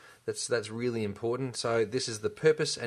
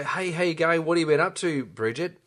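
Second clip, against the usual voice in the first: friendly greeting; 5 semitones higher, 4 dB louder than usual. Retold or imitated. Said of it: "I might go".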